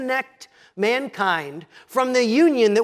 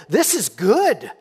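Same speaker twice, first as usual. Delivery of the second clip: the woman's practical thinking; 4 dB louder than usual. Retold or imitated. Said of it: "First, practical".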